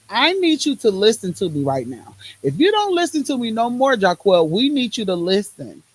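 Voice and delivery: insist, as the body demanding attention; firm, pressing appeal; urgent demand. Acted. Body voiced as demanding she listen.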